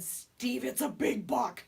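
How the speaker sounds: excited but held-in retelling; excited hushed call. Retold or imitated. Wife turning round to tell her husband, excited. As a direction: imitate urgent excitement, kept under control. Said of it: "I'm getting excited".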